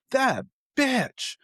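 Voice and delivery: high squealed mock outrage; mock indignant. He mock-curses the friend who outed him, high and indignant. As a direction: squeal it in playful betrayal.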